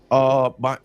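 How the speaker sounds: hoarse smoker's voice. Real, not acted. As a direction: rasp through a sore throat. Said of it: "my smoker sound voice".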